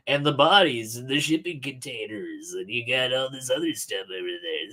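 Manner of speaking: hint of a badly done impression; horrible Mark impersonation. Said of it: "This is my horrible Mark impersonation".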